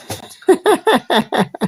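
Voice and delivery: loud, slow, laughing protest; laughing shout. Real, not acted. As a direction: bellow it through laughter. Laughing, mock outrage.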